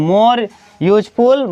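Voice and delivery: slow teaching example; drawn-out example. Shown as a demonstration. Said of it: "उसके साथ most लगा है adjective".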